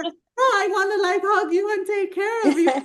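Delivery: light imitation of her own protest; high, pleading self-quote.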